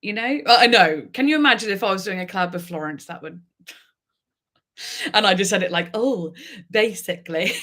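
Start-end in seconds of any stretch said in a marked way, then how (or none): 5.9-7.5 lightly laughing, offhand; mock casual. Mocking how she mentioned a Florence collab, with mock casualness. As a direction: toss it off like it's nothing. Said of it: "like, so casually".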